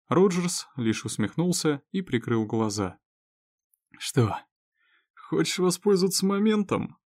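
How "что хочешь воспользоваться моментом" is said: sarcastic question. A narrator's reading. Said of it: "с сарказмом спросил он".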